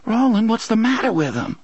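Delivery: high, hushed and horrified; soft horrified voice. A narrator's reading. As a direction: breathe it out in dawning horror. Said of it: "in a soft, horrified voice".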